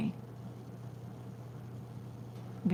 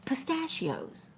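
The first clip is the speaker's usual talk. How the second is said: slow recall; 7 semitones higher, slower than usual. Real, not acted. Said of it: "trying to think of what kind it was".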